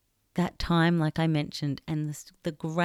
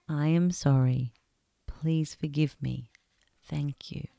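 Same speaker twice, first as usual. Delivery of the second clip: guided meditation. Acted. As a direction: ease the listener into stillness, gently. Leads a heart-space meditation.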